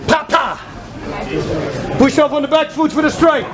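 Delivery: loud, high shouted cues over the music; coaching shout. Real, not acted. Coach to boxers in drill, loud shouted cues. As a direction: yell the rhythm to drive the strike.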